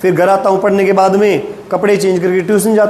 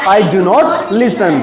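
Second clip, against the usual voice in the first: slow, measured model sentence; slow modelling; much slower than usual. Shown as a demonstration. Teacher giving the class a negative answer, slowly. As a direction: stretch the words for learners.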